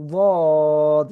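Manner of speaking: slow, drawn-out "ওয়াদ" with tongue side on the molars; Arabic letter dad. Shown as a demonstration. Teacher demonstrating the letter to students, slow heavy dad. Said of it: "সকলে পড়িবা".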